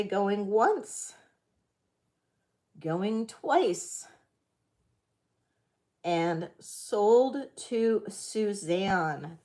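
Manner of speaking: slow drawn-out auctioneer call; auction countdown. Shown as a demonstration. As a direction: stretch out the final sold. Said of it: "I'm gonna count this down for you".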